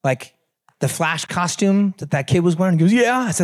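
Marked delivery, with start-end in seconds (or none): 2.9-3.3 put-on child's voice. Son answers his dad.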